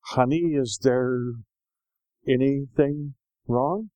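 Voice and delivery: slow, careful, gentle question; cautious nice voice. Acted. Husband carefully checking on his wife after work, cautious nice voice. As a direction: tiptoe through it slowly, stretching the words. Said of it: "very cautiously, carefully says in a nice voice".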